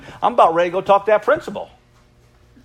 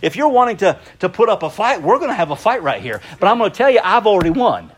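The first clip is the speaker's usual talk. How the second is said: defiant; 2 semitones higher than usual. Acted. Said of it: "get a tenacity about you and say".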